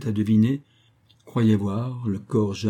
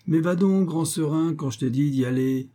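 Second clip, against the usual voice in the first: impatient urging; 6 semitones higher than usual. A narrator's reading. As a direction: push him up the stairs, half scolding. Forestier pushes Duroy to the stairs.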